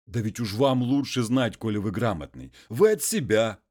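a hint of a humble muzhik pleading; peasant voice.

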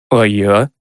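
lightly voiced dog asking to be included; whining dog. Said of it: "заскулил Родж". (слегка скулящий голос пса)

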